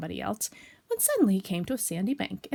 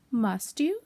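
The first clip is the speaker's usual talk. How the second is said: polite; 2 semitones higher than usual. Acted. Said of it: "Rabbit politely".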